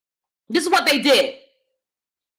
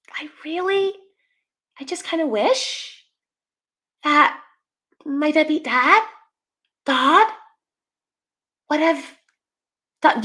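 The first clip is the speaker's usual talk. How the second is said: imitated voice; 5 semitones higher than usual. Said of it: "somebody with that voice".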